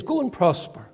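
mock well-wishing, falling at the end; sarcastic. Prophet answering the king, lightly sarcastic. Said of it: "he's really speaking sarcastically".

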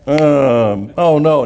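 boys' groaning reluctance, played for laughs; mock dismay. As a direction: groan it like mock-disappointed kids. Boys' dismayed reaction to missing school.

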